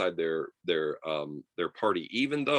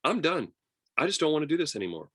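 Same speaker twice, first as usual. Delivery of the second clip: weary president quitting, pitched up and rushed; fed up, high and fast; 8 semitones higher, faster than usual. Retold or imitated. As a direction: throw it all away, fast. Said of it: "Coolidge just decided".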